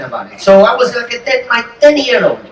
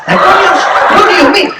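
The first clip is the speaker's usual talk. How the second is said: put-on much higher, laughing kid's question; baffled little kid; 9 semitones higher, 3 dB louder, faster than usual. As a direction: squeak it out like a confused boy. Kid voiced asking father.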